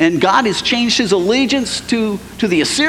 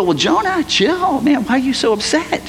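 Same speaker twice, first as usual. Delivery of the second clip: high, laid-back chill, man; a friend telling Jonah to chill, easygoing; casual calming; 4 semitones higher than usual. Pretend. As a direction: talk a buddy down.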